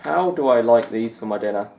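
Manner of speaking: light Scottish commentator lilt, barely put on; a hint of Alan McManus's Scottish accent; Alan McManus impression. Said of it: "as Alan McManus would say".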